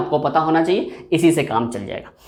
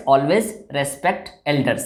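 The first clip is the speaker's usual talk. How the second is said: always respect elders spoken very slowly and softly; unhurried, deliberate advice; 3 semitones lower, 4 dB quieter, much slower than usual. Shown as a demonstration. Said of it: "advice दे रहे हैं तो always obey".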